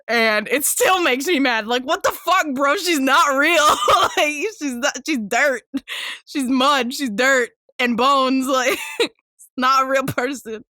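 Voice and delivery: half-laughing fury; still mad. Real, not acted. Telling listeners Kikyo is just dirt, mad and laughing. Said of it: "I'm getting angry".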